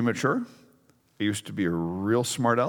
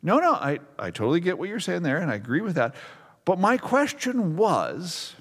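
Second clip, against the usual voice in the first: mock respectful; 4 semitones higher than usual. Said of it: "very respectfully".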